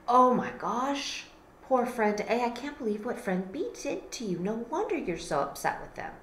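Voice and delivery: lightly voiced sympathy, softening at the end; sympathetic friend. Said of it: "you're like".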